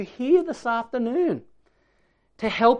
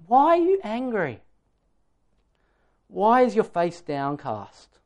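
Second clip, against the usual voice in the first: full of pathos. Acted. God questioning the angry Cain, full of pathos. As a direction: plead gently, questioning rather than accusing. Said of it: "I hear the pathos".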